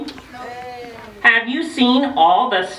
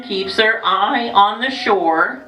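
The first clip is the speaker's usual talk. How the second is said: storybook reading; slower than usual. Acted. Reading book to children.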